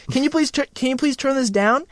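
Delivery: a passenger begging the driver to turn the music down; annoyed passenger. Pretend. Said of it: "people are just like".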